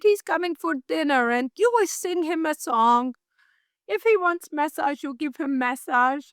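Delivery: hint of a bossy employer giving orders; imitating the boss. Quoting her boss ordering her to sing, in a light mock-bossy voice.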